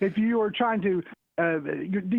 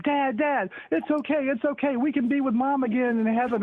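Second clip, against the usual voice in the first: put-on a bit higher, eager child pleading; little kid voice; 4 semitones higher than usual. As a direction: play the sweet little kid comforting dad.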